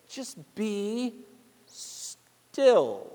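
tender hush; hushed be still. Acted. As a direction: let it sink to almost nothing. Repeating God's words softly.

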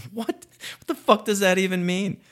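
high, loud disbelief; what the hell did he just say; incredulous. Real, not acted. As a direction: squawk it out in shock. Mocking Biden's line in disbelief.

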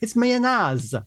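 high, slow, exasperated outburst; acting out a restaurant row; indignant insistence. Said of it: "we had a big fight and a scrap".

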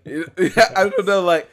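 bursting into a loud, high laugh. Real, not acted. Friend laughing at her own throwaway phrase, laughing loudly.

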